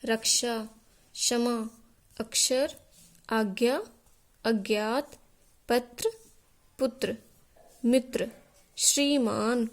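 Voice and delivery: word-by-word reading from "रक्षा" to "ज्ञान", conjuncts clearly sounded, pauses between; careful list reading, "रक्षा" through "ज्ञान", one word at a time; correct pronunciation model. Shown as a demonstration. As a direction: model each word from "रक्षा" to "ज्ञान" separately for pupils to repeat. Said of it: "आप इसी तरह से पढ़ेंगे".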